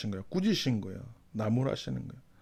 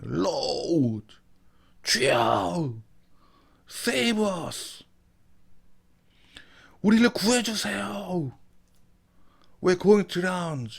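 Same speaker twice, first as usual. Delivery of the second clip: higher, louder, frightened plea; panicked cry for help; 8 semitones higher, 5 dB louder, much slower than usual. Acted. Disciples crying to the sleeping Jesus in fear. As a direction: cry out like men about to drown.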